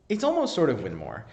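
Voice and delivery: usual speaking voice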